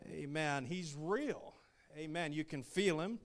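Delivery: emphatic, punched-up preaching. Real, not acted. Missionary preaching to the church about his living God, emphatic preaching. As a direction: preach it with conviction, leaning on key words.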